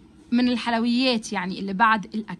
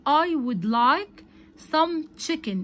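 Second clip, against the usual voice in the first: slow model reading; 3 semitones higher, 3 dB louder, much slower than usual. Shown as a demonstration. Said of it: "الولد قال له".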